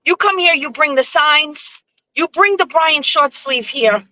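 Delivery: high-pitched, insistent imitated friend; imitating Blackie. Blackie demanding campaign signs, imitated high and insistent. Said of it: "He goes".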